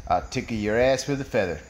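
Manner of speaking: low, assured delivery of a chat-up line; cool joke-character come-on; confident pick-up line. Acted. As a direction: drop the pitch and say it smoothly. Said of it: "and he goes".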